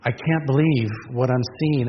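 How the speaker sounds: an understated wail of woe; passionate cry of grief. Retold or imitated. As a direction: cry out oi in grief, held back a little. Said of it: "It's the passionate cry of grief".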